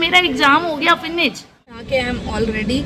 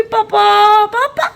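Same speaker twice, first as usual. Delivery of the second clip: put-on much higher, sing-song baby calls of papa; imitating baby calling papa; 12 semitones higher, 4 dB louder, much slower than usual. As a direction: squeal it up like the toddler calling dad. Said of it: "पापा के भी". (पापा को बुलाती बच्ची की ऊँची, गाती सी नकल)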